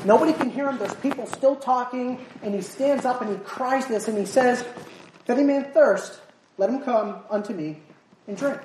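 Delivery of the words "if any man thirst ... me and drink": mock shout. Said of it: "He's shouting".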